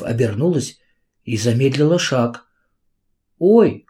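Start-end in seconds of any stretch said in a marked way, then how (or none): 3.4-3.9 sharp high gasp of surprise; a sudden, startled "Ой", pitched up; surprised cry, higher and louder. A narrator's reading. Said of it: "голос её дрогнул от удивления".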